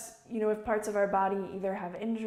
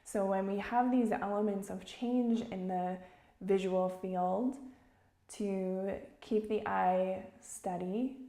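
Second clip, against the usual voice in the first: calm, measured meditation guide; unhurried instruction, phrase by phrase; guided meditation. Real, not acted. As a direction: guide listeners gently with long pauses.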